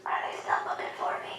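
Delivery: hushed, secretive whisper. Retold or imitated. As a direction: imitate a man whispering, afraid of being found. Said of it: "he whispered".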